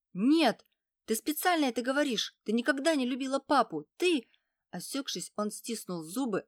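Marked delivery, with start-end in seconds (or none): 0.1-4.3 angry. A narrator's reading. Boy furious at mother.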